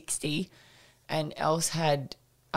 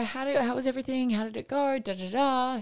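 higher, bright and chirpy, asking the sitter; breezy casual check-in; bright mum voice; 8 semitones higher than usual. Retold or imitated. Mum brightly asks the babysitter how it went.

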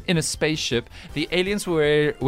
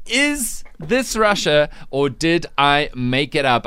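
put-on Russian accent; slower than usual. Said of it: "by popular demand".

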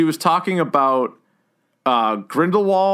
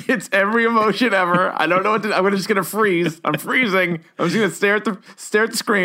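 raised, panicky mock voice; lightly panicked, higher pitch; 5 semitones higher than usual.

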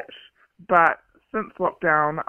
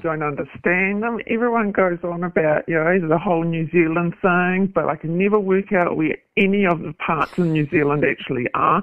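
disguised voice. Shown as a demonstration. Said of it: "your voice is disguised".

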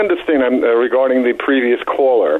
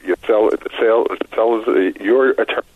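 choppy phone line cutting out; breaking up on a bad call; faster than usual. Real, not acted. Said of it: "you're breaking up a little bit".

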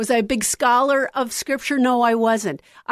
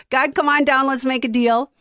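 game show host; 3 semitones higher than usual. Retold or imitated. Praying to God like a game-show host, hammed up. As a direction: call it out like The Price is Right. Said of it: "I thought I was on The Price is Right".

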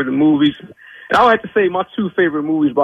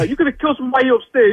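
mocking movie quote; 9 semitones higher, faster than usual. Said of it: "remember the guy who was like".

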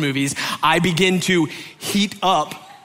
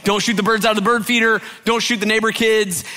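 quick, higher recital of house rules; brisk, raised-pitch rule reminder; rattled-off rules; 7 semitones higher, 3 dB louder than usual. Retold or imitated. Parents' rules recited in quick summary.

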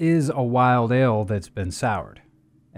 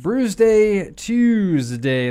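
talking around a cork; words mumbled past a cork in mouth; 8 semitones higher, 4 dB louder, much slower than usual. Real, not acted. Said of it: "with a cork in your mouth".

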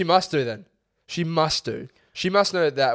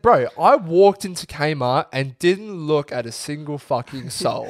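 protesting; 2 semitones higher, 4 dB louder than usual. Retold or imitated. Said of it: "I said".

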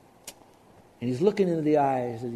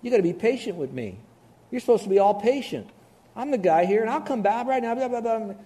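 cocky husband; 5 semitones higher than usual. Retold or imitated. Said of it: "And he says".

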